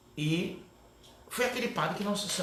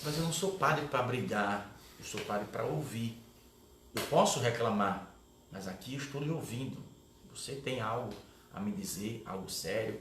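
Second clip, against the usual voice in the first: calm reassuring priest; 4 semitones lower, 4 dB quieter than usual. Retold or imitated. Priest calmly reassures the scared narrator.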